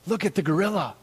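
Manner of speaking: put-on high, excited child at the zoo; high-pitched wonder of an excited youngster; excited kid. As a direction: marvel like a kid spotting an animal. Excited kids outside the gorilla cage.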